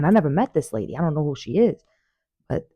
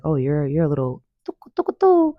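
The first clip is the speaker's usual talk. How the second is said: teasing singsong, last tuku jumping way up; mocking skeptic. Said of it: "they're gonna be like".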